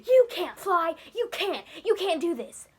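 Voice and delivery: scolding. Retold or imitated. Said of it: "he goes".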